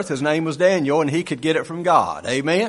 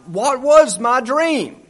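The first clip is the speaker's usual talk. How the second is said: puzzled king; 8 semitones higher, 5 dB louder, slower than usual. Retold or imitated. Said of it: "And he's like".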